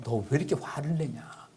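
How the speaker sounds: whisper. Retold or imitated. God questions angry Jonah.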